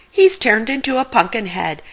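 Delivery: alarmed shout to Scooby; panicked yell. Acted. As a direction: yell it in rising fright. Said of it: "Shaggy yelled".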